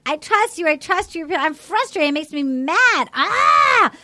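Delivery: hammed-up frustrated bachelorette venting; mock frustrated outburst. Mimicking the bachelorette snapping at Jed in frustration. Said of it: "She pushed away from the table and was so angry".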